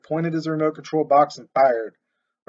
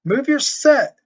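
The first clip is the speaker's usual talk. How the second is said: much higher and louder, shout that rings out; ringing shout; 11 semitones higher, 8 dB louder, slower than usual. A narrator's reading. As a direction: bark the order across the yard. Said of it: "voice rang out".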